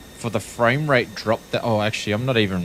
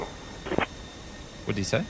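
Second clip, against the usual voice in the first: whispered; 10 dB quieter, much slower than usual. Real, not acted. Confused listening to radio.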